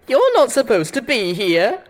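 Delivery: loud, high robotic pony voice; mechanical Pinkie Pie. A narrator's reading. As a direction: chirp it like a creepy machine. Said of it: "disturbingly like a mechanical Pinkie Pie".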